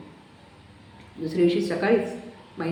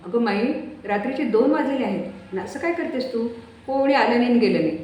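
higher, firmer telling-off; gently reasoning son; 5 semitones higher, 4 dB louder than usual. Acted. Son tells feverish Mai nobody came, firmly. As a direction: reason with her, it's two at night.

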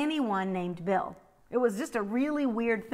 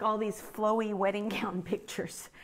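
giggly whisper; 5 dB quieter than usual. Real, not acted. Amused aside about wedding photos.

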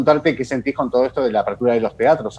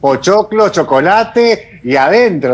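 louder, eager recommendation; excited; 3 semitones higher, 4 dB louder than usual. Real, not acted. Host excitedly recommends binge-watching. (entusiasmada, recomendando devorar la serie, más fuerte)

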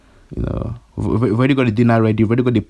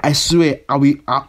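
whisper; 2 semitones higher, slower than usual. Acted. Threat whispered mid-rant.

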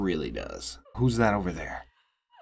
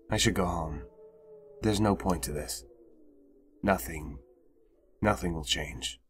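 despairing; 4 semitones lower, 6 dB quieter than usual. Acted. Hopeless character monologue.

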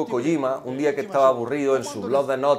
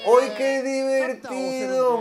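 mock delight; 7 semitones higher, much slower than usual.

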